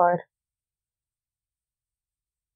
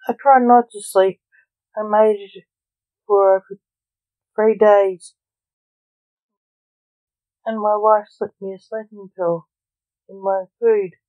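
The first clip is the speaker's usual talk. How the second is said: irritably; 5 dB louder than usual. Acted. Son irritably tells father how he tried to stay awake. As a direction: defend yourself with irritation. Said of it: "said Lance irritably".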